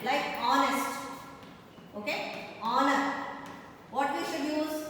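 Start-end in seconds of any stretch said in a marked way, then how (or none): 0.4-1.0 "honest" begun on the vowel; silent H. Shown as a demonstration. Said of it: "If the word is silent". 2.6-3.1 "honor" begun on the vowel; silent H. Shown as a demonstration. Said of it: "H is silent here".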